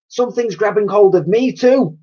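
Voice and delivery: high loud frightened yell. A narrator's reading. Girl grabbed in the dark, yelling too. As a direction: shout back in panic. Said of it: "yelled Elsie".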